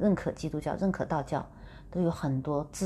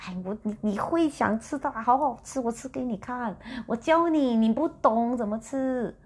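much higher, coaxing host, mouth busy; friend talking while eating; 5 semitones higher than usual. Retold or imitated. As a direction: show her how to eat, eager and pushy. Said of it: "他就一边吃一边说". (朋友边吃边劝，声音高而热切)

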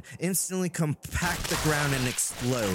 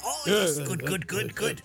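eager dwarf. Acted. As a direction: gush like a greedy little dwarf. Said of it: "And he goes".

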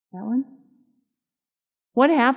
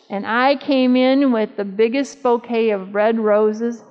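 ordinary delivery

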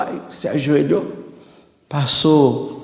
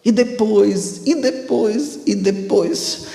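pressing higher each time; insistent repeating; 7 semitones higher, slower than usual. Retold or imitated. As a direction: keep pushing the question up. Priest pressing the question repeatedly.

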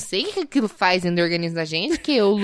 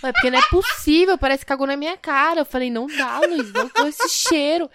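laughing through a higher, exaggerated protest; exaggerated laughing complaint; 6 semitones higher than usual. Wife laughing while protesting the smell to Luiz. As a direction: overplay the disgust while laughing. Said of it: "eu sou muito exagerada".

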